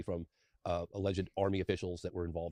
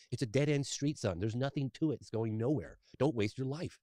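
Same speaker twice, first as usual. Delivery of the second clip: a hint of a begging father, higher; pleading father; 5 semitones higher, slower than usual. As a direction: urge him not to waste his life. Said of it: "he was begging me".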